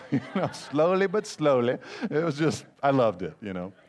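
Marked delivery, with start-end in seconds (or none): 0.5-1.8 playful Italian-accent impression. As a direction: mimic the Italian baker's accent for fun. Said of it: "he's got a thick Italian accent".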